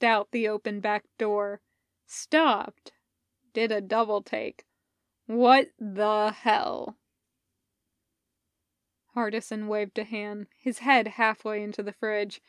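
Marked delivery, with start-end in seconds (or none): 5.3-7.0 startled Elliot. Acted. Elliot sees the truck.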